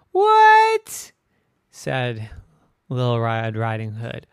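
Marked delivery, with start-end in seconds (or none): 0.1-1.1 very high, loud shocked cry; stunned high yelp; shocked what. Acted. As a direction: gasp it out in disbelief. Girl shocked grandma crashed.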